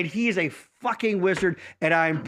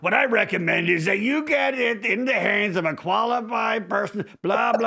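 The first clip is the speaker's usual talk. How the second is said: a hint of a know-it-all repair guy; lightly voiced expert giving advice; imitating Jason telling him to see a qualified person; mock Jason voice. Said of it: "I'm gonna do your voice now".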